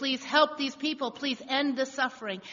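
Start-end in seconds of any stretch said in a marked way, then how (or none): none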